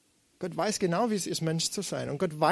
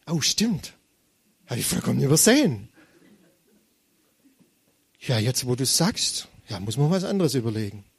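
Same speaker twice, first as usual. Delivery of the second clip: mock God voice; 5 semitones lower than usual. Preacher to congregation, lightly voiced God answering ironically. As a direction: play God as if he had simply overlooked it.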